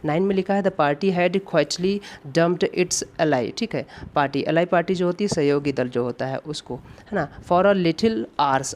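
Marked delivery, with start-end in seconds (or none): 0.6-3.6 reading the sentence out word by word, very slowly; slow dictation read. Shown as a demonstration. Reads exam sentence aloud slowly. 7.4-8.7 reading the sentence out word by word, very slowly; slow dictation read. Shown as a demonstration. Reads exam sentence aloud slowly.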